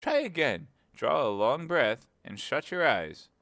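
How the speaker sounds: a hint of a scatterbrained queen; White Queen. A narrator's reading. The Queen explaining to Alice, lightly voiced fussy queen.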